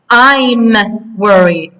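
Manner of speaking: slowed-down teacher model answer. Shown as a demonstration. Teacher modelling the corrected answer slowly for learners. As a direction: stretch it out clearly. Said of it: "What do we use with I?".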